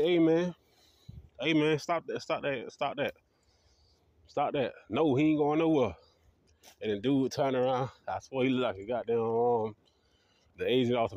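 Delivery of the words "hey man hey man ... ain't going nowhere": calling out. Retold or imitated. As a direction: yell at him to stop, then push back. Yelling at cop to stop.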